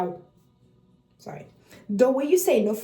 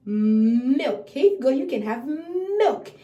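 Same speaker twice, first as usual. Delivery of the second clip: put-on baby talk; 2 semitones higher, 5 dB louder, much slower than usual. Shown as a demonstration. Parent handing baby milk, clear teaching voice. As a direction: offer the bottle naming milk clearly. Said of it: "be like".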